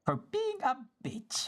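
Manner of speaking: whispered snide aside; snarky whisper. Real, not acted.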